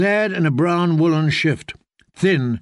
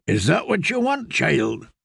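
a hint of a stern old teacher, higher; gently challenging a pupil; lightly voiced old knight; old master-at-arms; 3 semitones higher than usual. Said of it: "Sir Goodwin had warned her".

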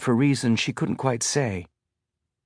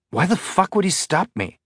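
higher-pitched indignant question; biting the words; 8 semitones higher than usual. A narrator's reading. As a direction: bite off each word, mildly angry. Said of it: "biting the words".

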